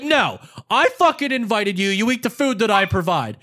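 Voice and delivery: imitated indignant brother; retold angry yell. Host brother insisting on his food, retold angry yell. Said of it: "you called to yell at me".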